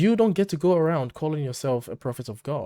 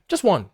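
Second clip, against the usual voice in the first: "Just" hit high and loud; stress on just; 6 semitones higher, 5 dB louder than usual. Real, not acted. To the listener, about the abuse, "Just" punched high and loud. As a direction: punch "Just" hard, higher and louder.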